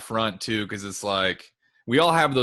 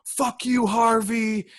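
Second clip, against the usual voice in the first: high, mocking parent yell; mock heckler yell; 11 semitones higher, 4 dB louder, much slower than usual. Rival parent cussing at the coach, mock yell. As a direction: jeer it like a rude parent in the stands. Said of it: "cussing at our coach".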